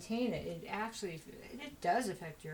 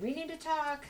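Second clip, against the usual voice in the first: higher-pitched, insistent delivery. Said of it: "It's like".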